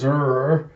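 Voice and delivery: sustained rrr snarl; mock growl. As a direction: imitate a dog's growl. Dog-like Fury growls.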